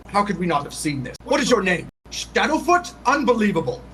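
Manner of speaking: incredulous outburst, rising in pitch; a restrained mock shout of outrage; acted shouting. A narrator's reading. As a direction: demand answers in disbelief. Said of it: "he's sort of shouting at you".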